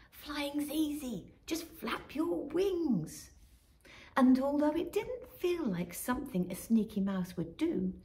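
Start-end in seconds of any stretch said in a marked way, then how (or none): 0.1-3.3 slow, different bird voice; calm magpie coaching. Acted. Magpie coaches Robin to fly. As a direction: coax her gently to flap.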